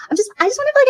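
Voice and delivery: high, whiny break; mock whine. Parody streamer whining about her hard time, high.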